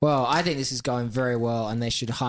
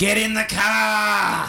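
horrific put-on Bogan accent, very high and loud; 10 semitones higher, 6 dB louder than usual. Describing an Australian version of Rick and Morty, doing Rick in a horrific Bogan accent. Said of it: "Just horrific Bogan accent".

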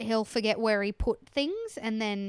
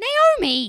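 exasperated, frustrated, very high, very loud call; 12 semitones higher, 9 dB louder than usual. Speaker demonstrates the frustrated noise they make: mock-frustrated calling Naomi. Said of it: "make the same noise that I've been making at you".

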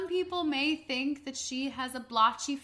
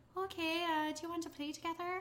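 soft, gentle put-on Irish accent; 4 semitones higher, 13 dB quieter than usual. Retelling what a girl named Kelsey would say: Kelsey's Irish accent. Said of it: "I love that accent".

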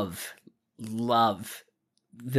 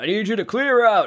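put-on very high, raised, strong English accent; 10 semitones higher, 7 dB louder than usual. Quoting the coach telling someone to clear out, in a strong English accent. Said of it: "I loved the dad's English voice here when he was like".

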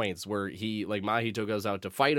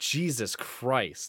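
ordinary talk

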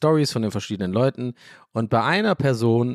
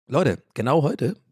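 voice breaking, higher; 4 semitones higher than usual. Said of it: "Voice Crack".

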